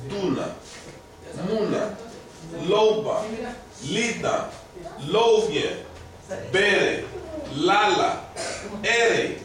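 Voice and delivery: each word alone, stressed on its first syllable, as in DU-na, MU-na. Shown as a demonstration. Teacher reads two-syllable words for stress, first syllables stressed. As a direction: read the list word by word, first syllable leaning hard: "Duna", "muna". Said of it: "tell me where the stress is".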